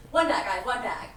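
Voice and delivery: loud, slow halting voice; exaggerated slow voice. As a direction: blurt it out like a caricature. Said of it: "with a sort of Rain Man meets every awful stereotype".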